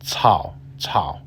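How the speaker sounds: "Tao" said quickly as one smooth syllable; smooth single syllable. Shown as a demonstration. Teacher modelling "Tao" smoothly for learners. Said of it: "said quickly and smoothly as one syllable".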